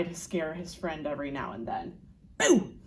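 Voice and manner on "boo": playful boo. Acted. Monster scares his friend.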